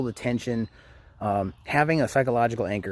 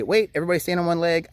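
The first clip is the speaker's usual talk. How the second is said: playful game call; 7 semitones higher, faster than usual. Retold or imitated. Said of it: "I may say".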